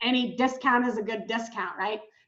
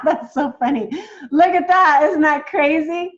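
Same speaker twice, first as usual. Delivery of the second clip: real delight; 3 semitones higher, 6 dB louder than usual. Real, not acted. Laughing at her old home.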